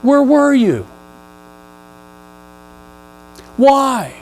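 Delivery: high, anguished crying out; lashing out at God. Pretend. Hurt believer crying out at God, pained protest. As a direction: plead and accuse, pitch way up. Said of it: "When you lash out at God".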